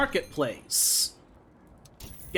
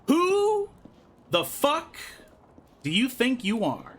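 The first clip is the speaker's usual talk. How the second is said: angry demand; 6 semitones higher, slower than usual. Acted. Reading a character's angry line.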